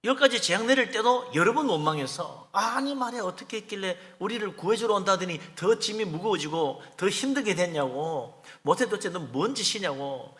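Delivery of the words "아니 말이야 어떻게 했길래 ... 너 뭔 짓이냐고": imitating the people's aggrieved complaint; mock grumbling. Israelites blame Moses for heavier burdens, grumbling. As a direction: lightly act out a resentful protest. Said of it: "그러면서 막 원망하고 그랬어요".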